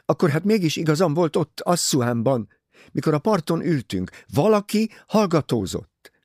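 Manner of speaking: high, loud, urgent outcry; wild cry. A narrator's reading. Jacqueline insisting to Poirot she was right, crying out wildly. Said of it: "kiáltott vadul Jacqueline".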